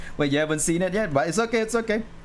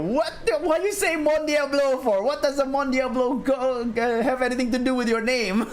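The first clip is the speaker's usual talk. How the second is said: laughing; 9 semitones higher than usual. Retold or imitated. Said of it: "I was like".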